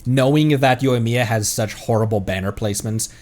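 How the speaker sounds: ordinary talk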